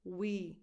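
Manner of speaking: "We" with a tense E after the W; "We", tense ee sound. Shown as a demonstration. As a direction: say "We" with a clear ee vowel. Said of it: "tense E after the W".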